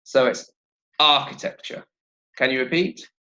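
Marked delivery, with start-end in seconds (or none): 1.0-1.8 "architecture" stressed on its first syllable; "architecture" with strong first syllable, lighter after. Shown as a demonstration. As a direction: hit the opening syllable of "architecture". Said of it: "stress is on the first syllable".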